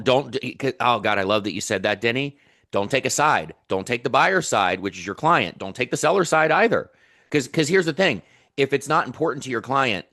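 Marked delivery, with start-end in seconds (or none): 2.7-10.0 real fired-up coaching, pitch jumping on key words; impassioned, emphatic advice; getting passionate. Real, not acted. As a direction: press the point with growing passion. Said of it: "I'm getting passionate now".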